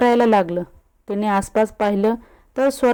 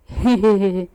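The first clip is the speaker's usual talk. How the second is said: teasing hehe. A narrator's reading. Gloating laugh.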